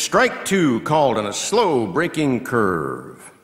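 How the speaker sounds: loud, slow, drawn-out umpire-like call; emphatic strike call. Real, not acted. Announcer calling strike two, loud and drawn out. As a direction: punch it out and stretch the ending.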